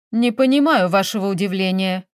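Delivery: usual speaking voice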